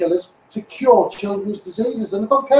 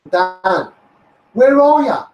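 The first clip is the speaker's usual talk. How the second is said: calling out; 5 dB louder, much slower than usual. Real, not acted. Calling out to Dan.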